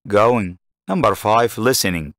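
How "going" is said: "Going" stepping down in pitch; falling intonation. Shown as a demonstration. Teacher showing learners where the tune falls, falling intonation on "Going". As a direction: start "Going" up and let it fall away. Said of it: "متى نزلت النغمة".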